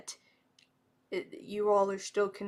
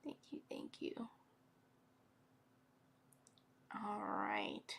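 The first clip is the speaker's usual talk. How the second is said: whispered thanks, moved; soft whisper; 13 dB quieter than usual. Real, not acted. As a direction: breathe out a grateful thank you. Closing emotional card reading.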